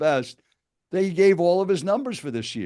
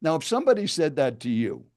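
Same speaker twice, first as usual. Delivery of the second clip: storytelling answer, demo. Pretend. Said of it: "let's just make believe you just asked me".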